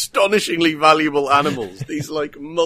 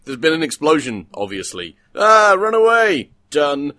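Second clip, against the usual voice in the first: mock film dialogue; 5 dB louder than usual. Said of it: "it's just like".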